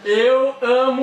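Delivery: Eu amo said slowly, word by word; staccato. Shown as a demonstration. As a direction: separate each word in Eu amo. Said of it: "fala palavra por palavra".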